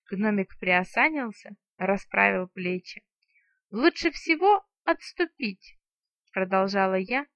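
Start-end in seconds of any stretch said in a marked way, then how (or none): 3.7-5.8 higher, slow hammed-up fright; mock fear. A narrator's reading. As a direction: act scared, overdone. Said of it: "затравленно озираясь по сторонам". (наигранный испуг, медленно)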